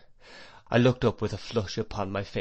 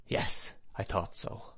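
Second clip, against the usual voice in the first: slow, hushed whisper to himself; 2 semitones lower, 8 dB quieter, slower than usual. A narrator's reading. Assistant master confirming his fear to himself, whispering. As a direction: murmur it privately under the breath, unhurried. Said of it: "said to himself in a whisper".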